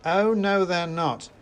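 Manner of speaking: high, loud shouted retort; shouted contradiction, pitch jumping up; involuntary shout. A narrator's reading. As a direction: blurt it back loudly. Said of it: "I shouted before I could stop myself".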